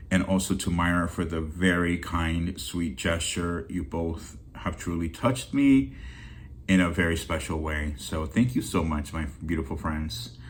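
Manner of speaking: emotional, hushed thank-you; teary thanks. Real, not acted. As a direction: thank them quietly through real tears. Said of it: "getting all emotional and teary-eyed".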